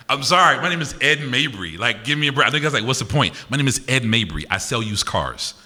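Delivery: mock your own name as a car salesman's; used-car salesman. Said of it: "That's how that name sounds".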